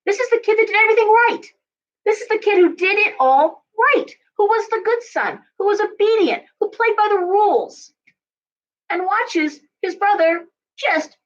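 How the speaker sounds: indignant rant. Real, not acted. Astrologer venting about the prodigal son's brother, high indignant rant. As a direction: pour out the unfairness, voice climbing.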